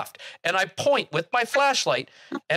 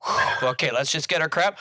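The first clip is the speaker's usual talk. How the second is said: relieved inner thought; 4 semitones lower than usual. Retold or imitated. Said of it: "you figure".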